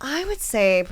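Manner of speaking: hushed playful reply; whisper. Acted. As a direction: whisper back conspiratorially.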